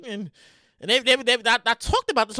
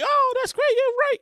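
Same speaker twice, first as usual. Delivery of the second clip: mocking reply; 11 semitones higher than usual. Voices sarcastic replies to post.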